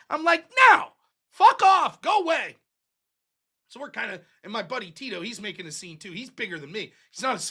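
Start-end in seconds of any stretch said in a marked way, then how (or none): 0.7-2.6 angry dismissal. Retold or imitated. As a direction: shoo them off in a retold outburst. Retold telling the hippie to leave.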